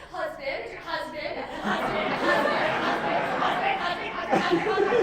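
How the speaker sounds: loud, insistent calls piling up; frantic repeated call. Acted. Party host hunting for Becky's husband, frantic shouting. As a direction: shout it over and over, unrelenting.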